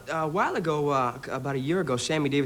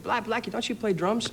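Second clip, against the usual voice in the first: pitched up, lightly acted question; retold calling-out question; 9 semitones higher than usual. Guest retells star springing a question on air, mock calling out. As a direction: imitate someone piping up with a question.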